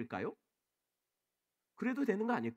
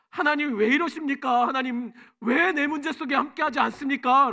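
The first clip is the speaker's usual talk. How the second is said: higher, louder pleading accusation of God; accusing complaint; 7 semitones higher, 8 dB louder than usual. Retold or imitated. A believer confronts God in prayer, loud accusing lament. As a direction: press God hard with the question why. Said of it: "라고 따져 묻는다는 것이에요".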